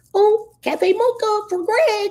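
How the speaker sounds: put-on very high, slow Japanese anime-girl voice. Retelling a Starbucks barista calling out an order: Japanese anime girl voice. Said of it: "She was talking in the Japanese anime voice".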